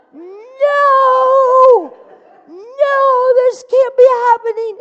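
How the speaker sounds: high, loud wail of no; yelling in dismay. Retold or imitated. Woman yelling to nobody as the light goes out, high loud dismay. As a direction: cry out in disbelief. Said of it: "she's yelling out loud to nobody".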